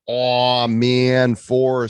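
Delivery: loud excited read-out. Retold or imitated. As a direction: exclaim it like a hype title. Reading review title with excitement.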